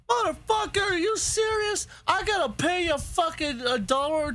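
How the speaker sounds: a sudden high, incredulous outburst; outraged disbelief. Real, not acted. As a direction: shoot up in pitch, appalled. Outraged at paying to reload.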